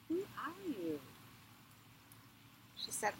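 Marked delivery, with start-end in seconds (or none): 0.1-1.0 small high guard's voice; little gatekeeper. Acted. Little man at the window questions Inanna, high small voice. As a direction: peep out as a tiny gatekeeper.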